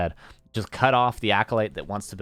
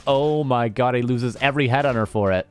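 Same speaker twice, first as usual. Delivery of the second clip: excited; 4 semitones higher, 4 dB louder than usual. Real, not acted. Comeback fight in esports cast.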